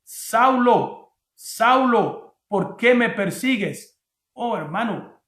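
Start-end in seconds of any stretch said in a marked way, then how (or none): 0.0-4.0 raised, slow calling voice; voice from heaven. Acted. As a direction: call out slowly as a voice from heaven. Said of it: "oyó una voz que le decía".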